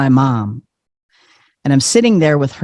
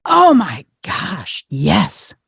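retold gushing; much slower than usual. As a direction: imitate an enraptured fan agreeing wholeheartedly. Mom gushes about the interview.

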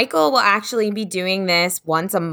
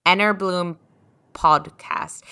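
put-on careful Scottish accent, pausing before the last word; attempted Scottish accent; slower than usual. Co-host repeats the name after guest, careful Scottish accent. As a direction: imitate a Scottish speaker's vowels. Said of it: "replicate someone's accent".

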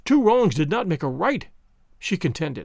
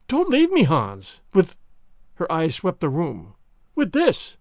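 frightened pleading; slower than usual. Acted.

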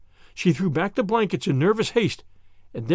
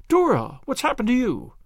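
crying out; 7 semitones higher than usual. A narrator's reading. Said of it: "cried Anne".

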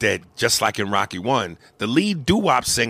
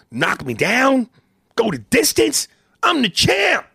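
building from firm to a high shout; champ's boast; 11 semitones higher, 4 dB louder than usual. Retold or imitated. Acting out Apollo's warrior ego, building to a shout. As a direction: rise to a shouted brag.

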